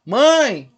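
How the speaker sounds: "Mãe" called out loud with a long vowel; "Mãe" held long and loud as an example; prolonged vowel. Shown as a demonstration. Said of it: "se você prolongar a palavra".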